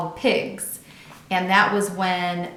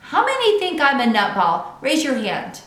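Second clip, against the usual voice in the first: eager question; 6 semitones higher, 5 dB louder than usual. A narrator's reading. Junie B. polls the girls.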